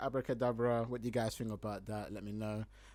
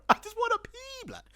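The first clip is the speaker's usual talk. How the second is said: high, loud mock begging; hammed-up whine for the toilet; desperate plea; 5 dB louder than usual. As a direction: beg loudly to be let through. Acting out his desperate plea.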